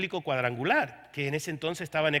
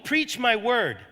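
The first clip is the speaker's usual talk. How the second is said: quoting Paul; 3 semitones higher, 4 dB louder, much slower than usual. Retold or imitated. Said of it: "Paul dijo".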